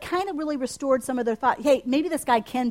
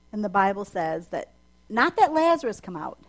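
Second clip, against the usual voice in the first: ordinary talk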